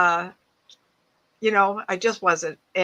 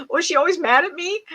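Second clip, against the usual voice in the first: puzzled question; 10 semitones higher, 5 dB louder than usual. Retold or imitated. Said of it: "she go".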